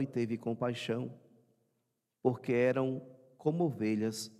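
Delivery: measured, projected liturgical reading; Gospel proclamation. Acted. Priest proclaiming the Gospel to the congregation, measured and formal. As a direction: read out scripture solemnly in short, separated phrases.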